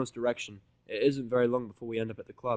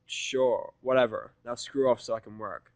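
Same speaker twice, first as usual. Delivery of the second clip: dismissive; 5 dB louder, slower than usual. Acted. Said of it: "I reply dismissively".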